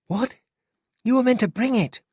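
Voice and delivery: high sharp disbelief; indignant. Acted. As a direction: scold him in disbelief. Angry realisation, amulet forgotten.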